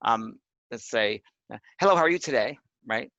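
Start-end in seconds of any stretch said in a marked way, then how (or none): 1.8-2.6 greeting pushed louder, a bit higher; bright demo of a spirit's hello. Shown as a demonstration. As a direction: call it out like a voice heard inside. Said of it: "So you might hear".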